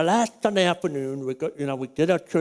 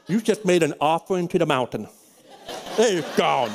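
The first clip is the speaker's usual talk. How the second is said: chuckling through the joke; amused teasing to his son; laughing. Retold or imitated. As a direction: laugh as you break the bad news. Joking to son about lost phone.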